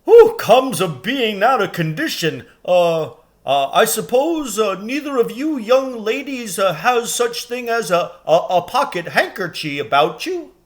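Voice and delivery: high, loud rustic giant voice; blowing and puffing. A narrator's reading. Tired giant after smashing the walls, puffing. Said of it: "said the giant".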